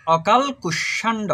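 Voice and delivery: "অকাল কুষ্মাণ্ড" said distinctly, no vowel after the ল; model pronunciation. Shown as a demonstration. Teacher answers how it is pronounced, model pronunciation of "অকাল কুষ্মাণ্ড". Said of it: "উচ্চারণ হবে".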